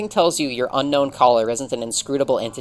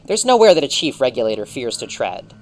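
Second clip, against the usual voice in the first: loud forced confidence on "There's nowhere that a chief regulator fears to tread"; mock bravado; 5 dB louder than usual. Regulator boasts to the child, hollow loud bravado. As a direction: puff up, a touch too loud. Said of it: "You seem a little scared".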